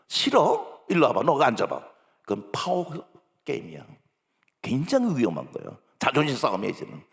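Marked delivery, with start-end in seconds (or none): 0.1-1.9 louder commanding scold; angry mother. Retold or imitated. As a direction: order the child over, escalating. Mother escalating power struggle. (아이를 불러 세우는 크고 화난 엄마 목소리)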